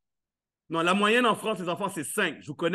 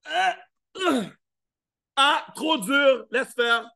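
put-on whiny toddler giving up; 4 semitones higher, much slower than usual. Toddler who fell, whining to himself.

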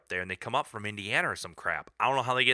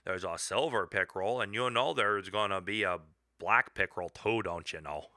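mock Canadian accent; 2 semitones higher than usual. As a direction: tease the Yankees in a light Canadian accent. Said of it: "you gotta have a little bit of an accent".

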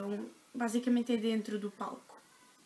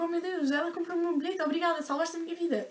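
imitating Rita gushing, higher; bubbly, thankful and higher-pitched; super happy; 6 semitones higher than usual. Rita thanking the mother for the ticket, gushing. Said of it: "super feliz".

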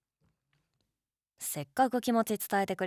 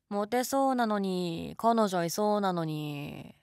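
slow, syrupy teasing compliment; teasing flattery; slower than usual. Shown as a demonstration. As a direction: drag it out like fake flattery. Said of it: "これはお世辞。".

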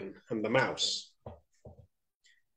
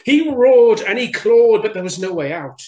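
loud, high, urgent storytelling; dramatic narration; 9 semitones higher, 10 dB louder than usual. A narrator's reading. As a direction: belt it out as the struggle erupts. Lion struggles in the trap.

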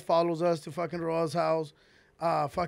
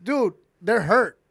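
urgent plea; 6 dB louder than usual. Retold or imitated. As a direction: press hard, they need help. Urgent plea about injured friends.

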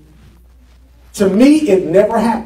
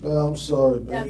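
softer, whiny sorry; whining apology; 7 semitones lower, 10 dB quieter than usual. Shown as a demonstration. Preacher acting out the whiny sorry his wife dislikes. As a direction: whine the apology like a sulky husband. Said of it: "She doesn't like that kind of whining".

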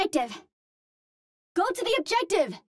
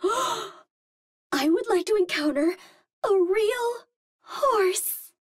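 awed wonder; much slower than usual. Acted. Gasps, dreams of seeing a horse.

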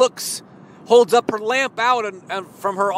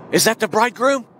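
lifted question with a rising hopeful end; eager hope; faster than usual. Acted. Virgin straining to see the bridegroom, eager lift. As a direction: ask it again with more hope. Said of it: "And she's saying".

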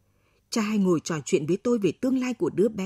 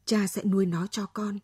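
plain reading voice

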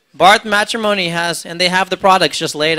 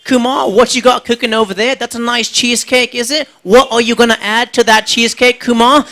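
higher, sing-song mock-friendly judge; teasing TV judge; 5 semitones higher than usual. MasterChef judge teasing Kumar about his cheesecake, higher sing-song. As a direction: tease him with a sugary host voice. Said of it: "They're like".

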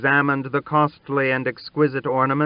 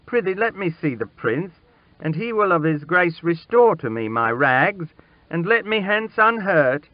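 put-on high, pleading boy begging for mercy; stammered plea; 7 semitones higher than usual. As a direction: beg desperately, voice climbing higher. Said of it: "he made shift to stammer out".

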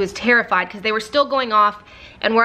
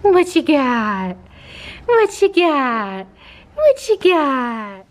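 slow, higher sing-song to a puppy; puppy talk; 3 semitones higher, much slower than usual. Real, not acted. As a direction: coo it slowly at the dog. Talking to the puppy.

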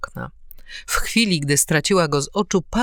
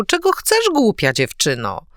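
gruff rebuke; 5 semitones higher, 4 dB louder than usual. A narrator's reading. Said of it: "zawołał".

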